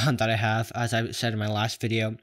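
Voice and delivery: lisping through plastic braces. Real, not acted. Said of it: "I'm sorry about the lisp".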